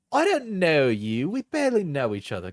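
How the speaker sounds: lightly mocking British accent; put-on accent. Reading an ex's texts aloud, put-on British accent. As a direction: read it back in an affected British voice. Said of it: "when I'm doing the accent".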